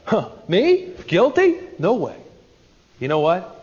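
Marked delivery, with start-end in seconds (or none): 0.1-2.2 incredulous "Guilty?" pitched up; brushing off the blame; hammed-up innocent denial; mock denial. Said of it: "self-righteous".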